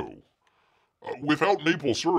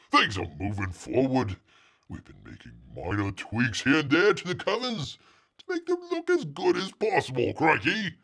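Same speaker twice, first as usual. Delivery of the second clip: mock Australian accent. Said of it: "do this in the accent".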